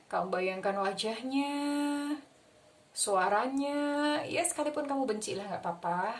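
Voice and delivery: calm, gentle guiding voice; guided visualization. Acted.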